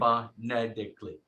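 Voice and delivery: Rhode Island take on "phonetically"; Rhode Island accent. Shown as a demonstration. Teacher demonstrating the accent to the class, Rhode Island accent. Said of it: "the Rhode Island accent".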